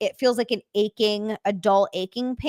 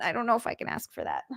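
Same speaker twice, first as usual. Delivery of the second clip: softer, fast, unsure of yourself; hesitant murmur; 6 dB quieter, faster than usual. Real, not acted. Streamer to Frank, softly doubting she can accept. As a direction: mutter it like you can barely ask.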